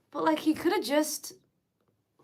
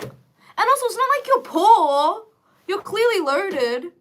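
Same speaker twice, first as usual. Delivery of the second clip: loud indignant; 8 semitones higher, 10 dB louder, slower than usual. Real, not acted. Outraged rant at parents.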